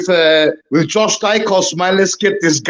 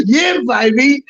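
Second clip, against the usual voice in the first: excited whoop; 9 semitones higher than usual. Real, not acted. Celebrating after the win.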